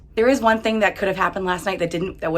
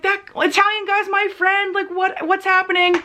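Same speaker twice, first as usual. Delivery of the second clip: agitated friend; 10 semitones higher than usual. Retold or imitated. Andy quoted, upset about fight.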